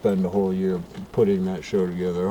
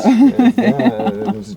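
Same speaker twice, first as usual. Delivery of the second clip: excited burst; 11 semitones higher, 8 dB louder, slower than usual. Acted. Fireworks explosion excitement.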